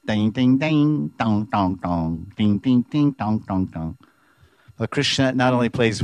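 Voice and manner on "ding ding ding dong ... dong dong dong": climbing dings, sinking dongs; high and low notes. Shown as a demonstration. Teacher showing the high and low notes of a one-string bow. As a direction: sing ding up high, then drop low for dong. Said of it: "you can get high or low notes".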